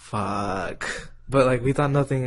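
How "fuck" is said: drawn-out whispered curse; whispered dread. Retold or imitated. Friends see her pull out a phone, whispered dread. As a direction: breathe the curse out, voiceless. Retold dread at being caught.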